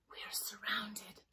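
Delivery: slow, soft, breath-only whisper. Acted. Mermaid warns her friends, whispering. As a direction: whisper it as a warning. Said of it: "Mermaid whispered".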